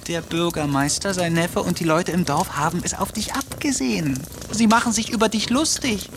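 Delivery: a cat nagging its owner, exasperated; scolding cat. Acted.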